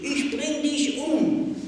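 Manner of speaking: sehr laut, viel höher, langsam und außer sich; rasender Schrei. A narrator's reading. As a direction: schrei es voller Hass heraus. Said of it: "schrie ich". (das Mädchen würgt Pella und schreit voller Hass)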